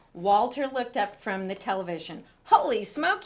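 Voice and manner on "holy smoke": high, loud exclamation; boy startled by noise on roof. A narrator's reading. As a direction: react to the noise. Meteors hit roof.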